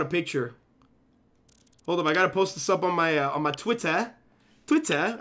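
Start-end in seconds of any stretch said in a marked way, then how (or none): 3.5-4.1 Twitter ending in an open "-tah" instead of "-ter"; odd accented pronunciation. Real, not acted. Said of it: "I don't know why I said it like that". 4.7-5.2 Twitter raised in pitch, ending in an open "-tah"; odd accented pronunciation. Real, not acted. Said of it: "I don't know why I said it like that".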